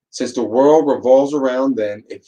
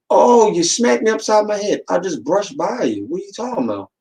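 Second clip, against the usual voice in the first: higher, whiny accuser; mock dramatic whine; 9 semitones higher than usual. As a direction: ham up the overdramatic victim. Dramatic person accusing, then reply.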